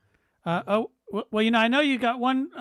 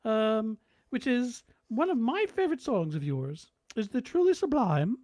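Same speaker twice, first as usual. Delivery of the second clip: the Queen. Retold or imitated. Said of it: "a royal command".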